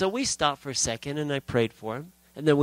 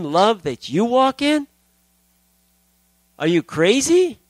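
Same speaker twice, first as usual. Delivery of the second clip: incredulous protest; 5 dB louder than usual. Acted. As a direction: object in hammed-up disbelief, building to a loud question. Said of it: "I don't talk like that to God".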